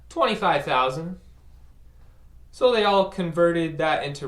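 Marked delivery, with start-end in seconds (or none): 0.1-1.2 bragging. Retold or imitated. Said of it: "complete bragging".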